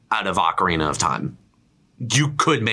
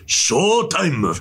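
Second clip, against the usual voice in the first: higher, drawn-out announcer call; Japanese trailer read; 9 semitones higher than usual. Retold or imitated. Mimicking the Japanese trailer, higher drawn-out call. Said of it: "the Japanese trailer is even funny".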